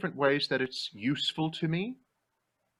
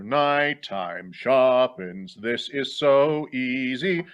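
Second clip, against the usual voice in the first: confident Phantom; 4 dB louder, much slower than usual. Acted. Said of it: "if the Phantom is".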